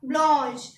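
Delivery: French pronunciation of ब्लॉन्श; French blanche. Shown as a demonstration. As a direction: say ब्लॉन्श as blonsh. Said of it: "क्या बोलेंगे?".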